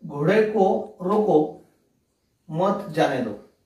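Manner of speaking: घोड़े को रोको, a break, then मत जाने दो; pause after रोको. Shown as a demonstration. Teacher reading out the comma example, pause after रोको. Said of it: "यहाँ पे एक अल्पविराम दिया है".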